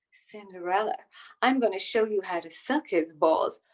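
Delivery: low, seductive put-on voice; sultry porn voice. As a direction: purr it like a cheesy porn line. Porn version of Cinderella.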